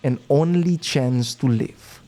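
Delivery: low, measured game master narration; suspenseful game master. Acted. Game master warning adventurer of last chance, suspenseful.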